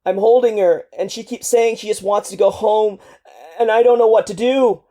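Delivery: a soldier breaking down as he relives it; grief-stricken soldier pouring out his trauma to El, crying; strangled crying. Acted. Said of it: "Your last words are a strangled cry".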